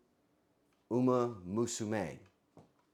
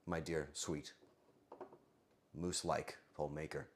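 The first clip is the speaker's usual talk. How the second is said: mock tender; 10 semitones lower, 13 dB quieter than usual. Cooing at poll maker.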